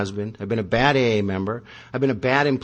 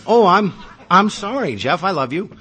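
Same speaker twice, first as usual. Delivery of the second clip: hurried, higher mock apology; higher-pitched rushed sorry to her husband; wife apologizing in a higher voice; 6 semitones higher, 3 dB louder than usual. Wife quickly apologizing to sulking Jeff, higher mock apology.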